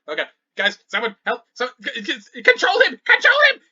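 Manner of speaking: frantic cry for help, building to a high scream; panicked screaming. Acted. Princess begging the others to control him, screaming. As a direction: start urgent, climb to a loud high shriek. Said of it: "with Princess screaming the entire time".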